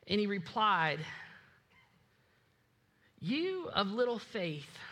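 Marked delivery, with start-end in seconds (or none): 3.2-4.8 calm rebuke. Acted. Jesus answers calmly in storm.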